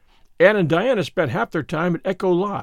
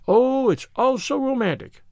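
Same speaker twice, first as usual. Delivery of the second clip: higher-pitched, lightly acted rapture; breathed romantic rapture; 7 semitones higher than usual. A narrator's reading. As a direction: sigh it out, swept up in the romance. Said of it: "breathed Anne to Marilla that night".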